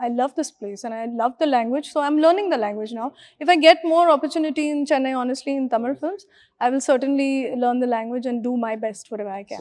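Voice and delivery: ordinary talk, nothing marked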